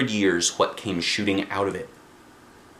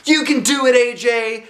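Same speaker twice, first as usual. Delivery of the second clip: very high, louder cheer; shouted cheer; 13 semitones higher, 5 dB louder than usual. A narrator's reading. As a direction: urge on a friend. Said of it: "shouted one of the boys".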